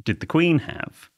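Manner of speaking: a hint of Miami accent, slow. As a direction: drawl it like a Miami man. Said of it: "he went".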